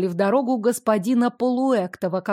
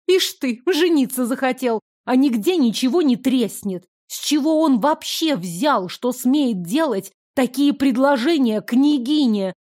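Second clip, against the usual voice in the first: angry; 3 semitones higher than usual. Acted. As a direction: vent the anger at him. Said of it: "позволила эмоциям вырваться наружу".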